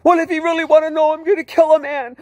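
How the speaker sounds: high, loud, rushed tearful cry; distraught outburst. Retold or imitated. Sobbing driver confessing his plan to kill, distraught outburst. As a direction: blurt it out at a wailing pitch. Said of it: "and he's sobbing".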